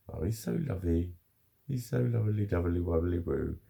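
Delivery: adoring pet-owner babble. Real, not acted. Cooing over the pet.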